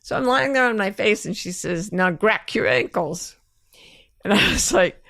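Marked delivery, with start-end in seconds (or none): 1.9-3.4 GRACK in place of grab, ending in a hard k. Retold or imitated. Quoting the bodywork woman's order, grab mispronounced as GRACK. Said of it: "She thought the word grab was pronounced grack".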